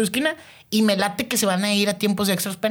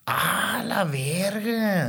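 stunned drawn-out curse; 3 semitones higher, 5 dB quieter, much slower than usual. Real, not acted. Stunned reaction to the hand.

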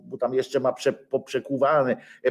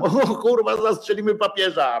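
mock excited reenactor; 8 semitones higher than usual. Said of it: "jak tam".

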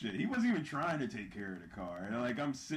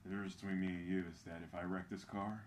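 put-on smug rich kid; 2 semitones lower, 5 dB quieter than usual. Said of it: "he was like".

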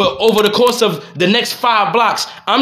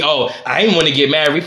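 mocking wife; 6 semitones lower than usual. Mimicking his wife again.

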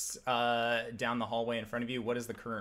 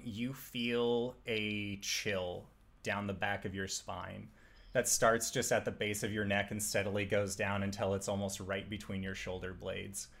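hushed suspenseful narration; 2 semitones lower than usual. Acted. DM sets eerie scene.

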